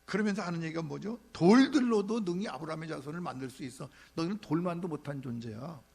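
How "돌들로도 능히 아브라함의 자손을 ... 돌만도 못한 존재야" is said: scornful rebuke. Retold or imitated. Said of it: "이런 얘기를 지금 막 하는 거예요".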